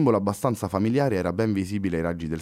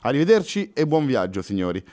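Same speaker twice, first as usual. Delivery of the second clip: higher and louder, officer giving orders; calling out; 6 semitones higher, 3 dB louder than usual. Acted. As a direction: call out to the squad and leave. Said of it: "esclamò ad alta voce il poliziotto".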